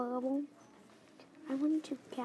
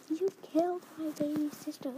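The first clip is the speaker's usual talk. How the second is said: a touch of a scream; 4 semitones higher, 4 dB louder than usual. Acted. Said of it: "I screamed as I".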